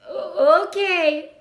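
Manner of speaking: put-on an excited young pig jumping at the chance; eager Wilbur. A narrator's reading. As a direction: piglet keen to try spinning a web, eager and bright. Wilbur eager to try spinning.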